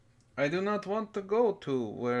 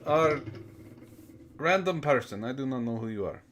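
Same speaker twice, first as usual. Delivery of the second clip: fake Russian accent. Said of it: "I am not fake Russian".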